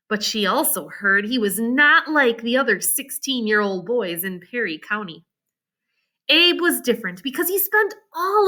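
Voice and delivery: steady read-aloud storytelling; story narration. A narrator's reading. Teacher reads story aloud.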